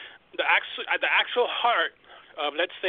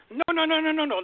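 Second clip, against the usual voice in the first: emphatic no; 9 semitones higher than usual. Real, not acted. Emphatic refusal of false claim.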